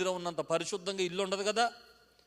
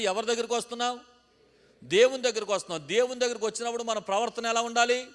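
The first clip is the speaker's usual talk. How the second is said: louder, higher call-and-response preaching; rousing preaching; 6 semitones higher, 9 dB louder than usual. Acted. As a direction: rouse the congregation to shout back. Calling congregation to answer loudly.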